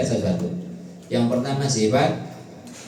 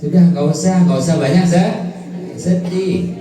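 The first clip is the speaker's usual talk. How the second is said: exhorting; 5 semitones higher, 6 dB louder than usual. Acted. Preacher exhorting congregation.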